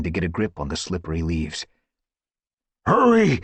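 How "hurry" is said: high, loud urgent hiss. A narrator's reading. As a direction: hiss the order. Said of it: "Tall Star hissed".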